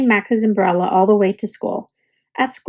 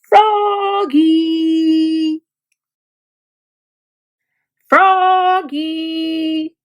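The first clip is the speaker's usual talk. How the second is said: crying out; 4 semitones higher, much slower than usual. A narrator's reading. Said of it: "cried his teacher".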